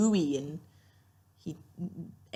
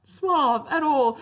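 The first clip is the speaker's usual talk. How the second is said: slow words through laughter; laughing; 8 semitones higher, 4 dB louder, much slower than usual. Real, not acted. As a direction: laugh while you say it. Laughing at the scene.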